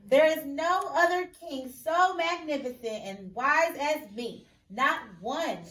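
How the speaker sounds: loud, slow and grand, puffed up with pride; boasting king. Acted. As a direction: brag like a vain king. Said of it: "Surely he boasted".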